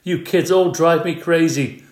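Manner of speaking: loud exasperated father yell; fed-up dad shouting at his kids. A narrator's reading. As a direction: yell at the kids in the back seat. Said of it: "yelled Mister Payne".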